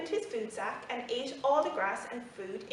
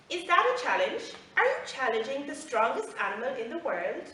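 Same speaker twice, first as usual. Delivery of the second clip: laughing boast; 3 semitones higher, 5 dB louder than usual. Acted. Elephant scoffing at the camel's challenge, loud and amused. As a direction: scoff at the very idea. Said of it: "The elephant laughed and said".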